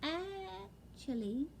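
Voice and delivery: high, slow winded owlet; winded after the fall; slow breathless owlet. Acted. Owlet getting his breath back, slow and high. Plop's voice in the story.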